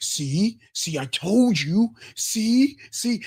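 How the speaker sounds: very high, very slow, drawn-out gloating tone. Acting out what the man says after the reel: imitating the man. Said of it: "And he's like".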